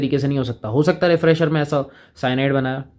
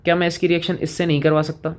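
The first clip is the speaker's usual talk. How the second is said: lightly voiced student, pitched higher; छात्र की नकल; 5 semitones higher than usual. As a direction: put a student's question to the teacher in a higher voice. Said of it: "अब आप कहोगे". (छात्र बनकर हल्की ऊँची आवाज़ में सवाल)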